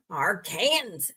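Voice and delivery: Arkansas said like "ar-KANZ", drawn out slowly; mispronounced Arkansas. Shown as a demonstration. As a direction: say Arkansas slowly as if it were "are Kansas". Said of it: "I just mispronounced it".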